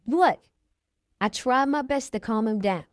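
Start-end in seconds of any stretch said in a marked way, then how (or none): 0.1-0.4 higher and louder, a barked What; angry shout, read aloud; sharp yell. A narrator's reading. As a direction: snap it back at her, loud. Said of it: "He yelled at me".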